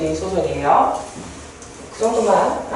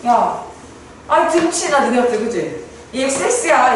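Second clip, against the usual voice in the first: mock scolding. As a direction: act out a friend telling someone off. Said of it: "꾸짖으면서, 혼내면서". (친구를 꾸짖는 척)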